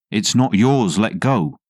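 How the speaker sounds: daughter's sharp shout; yelling. Retold or imitated. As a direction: snap it out like a furious kid. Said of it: "yelling at him".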